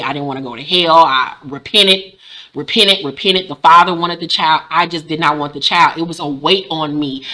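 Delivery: real, restrained personal disclosure; serious, personal. Real, not acted. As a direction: step out of the jokes and speak plainly. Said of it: "to get personal and to get serious".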